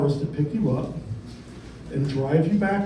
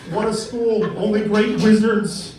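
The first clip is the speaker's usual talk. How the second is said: Trump impression. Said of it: "this is my impersonation".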